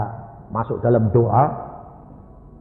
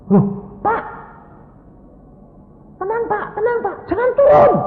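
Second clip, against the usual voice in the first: high, loud mock alarm; flustered nurse; 8 dB louder than usual. Nurse stopping a patient getting out of bed, flustered cries. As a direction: plead frantically as a panicked nurse. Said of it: "susternya kan kebingungan".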